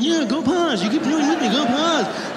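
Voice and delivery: high, impatient complaint; exasperated. Acted. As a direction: wave off a pestering driver, fed up. Exasperated driver shouts at police car.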